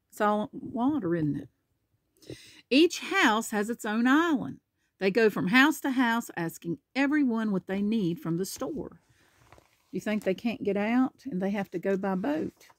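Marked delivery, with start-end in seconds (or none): 2.7-9.0 lively picture-book narration; animated storybook reading; reading to children. Acted. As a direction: read it out clearly for a small child. Reads picture book aloud.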